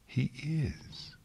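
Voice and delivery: a guilty teacher's tiny voice. A narrator's reading. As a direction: barely let it out, meek. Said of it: "in a tiny voice".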